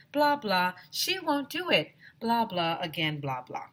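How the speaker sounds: lightly voiced fussy parent going on and on; a hint of a whiny parent; droning parent. Parent's droning complaint mocked.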